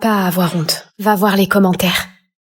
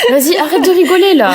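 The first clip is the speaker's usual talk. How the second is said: half-laughing through tears, louder; laughing protest; 6 semitones higher, 3 dB louder than usual. Acted. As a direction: laugh while telling them to stop. Rit en pleurant. (protester en riant à moitié)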